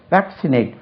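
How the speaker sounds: "வேக்சினேட்" with stress on the opening வேக்; stress on first syllable. Shown as a demonstration. Teacher pointing out the first syllable, stressing வேக் in "வேக்சினேட்". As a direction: lean on வேக் at the start of "வேக்சினேட்". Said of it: "first syllable".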